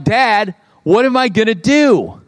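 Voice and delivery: mock distressed kid, pitch rising; freaking-out kid. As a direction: imitate a child's mild freak-out. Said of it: "They're, like, freaking out".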